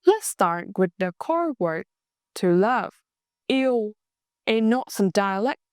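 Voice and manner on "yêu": "yêu" pronounced very clearly; very clear pronunciation. Shown as a demonstration. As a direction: say "yêu" clearly, as a model for learners. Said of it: "yêu is pronounced very clear".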